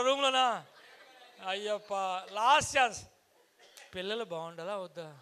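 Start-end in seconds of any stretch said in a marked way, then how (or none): 3.9-5.2 low, soft question; quiet prompt. Real, not acted. Speaker giving audience a last chance, low soft prompt. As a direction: set up the last chance softly.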